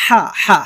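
হা pressed out from the middle of the throat. Shown as a demonstration. Teacher demonstrating the letter ha, pressed mid-throat হা. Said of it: "গলার মাঝখান থেকে চাপ দিয়ে উচ্চারণ করতে হবে".

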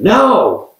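loud, high mock-angry retort; high-pitched angry outburst, retold; imitated angry no. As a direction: fire back one loud word, imitating someone furious. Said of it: "shaking with anger".

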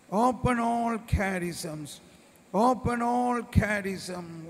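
chanted pleading prayer; fervent prayer. Acted. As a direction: call out each plea fervently.

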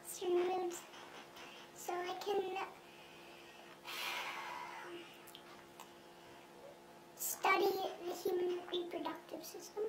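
altered anonymous voice; disguised deep voice. Acted. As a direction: voice disguised to hide identity. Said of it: "his voice has been altered".

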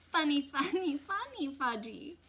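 put-on high, singsong little-boy voice; high childish chanting; gleeful toddler. A narrator's reading. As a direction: parrot it playfully like a small child. Toddler parrots his mother gleefully.

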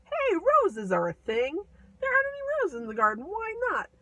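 high and rising, a touch tearful; lightly voiced Gerda, suddenly upset; upset little girl. Little Gerda discovering the missing roses, high and upset. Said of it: "Gerda goes".

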